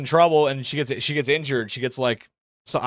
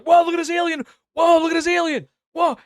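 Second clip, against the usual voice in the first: high, loud dumb wow at the aliens; mock amazed internet; 4 dB louder than usual. Social media users reacting to alien footage, high loud mock awe. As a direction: gawk like every social media poster. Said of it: "all the social media's like".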